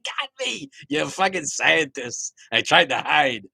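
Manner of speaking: high, loud hammed-up cry of being found; God caught hiding. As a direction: cry out high, then ease down as the caught culprit. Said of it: "and there he's like".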